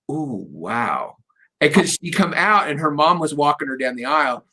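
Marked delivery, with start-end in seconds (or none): 0.1-1.2 awed wow. Retold or imitated. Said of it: "you can hear me go".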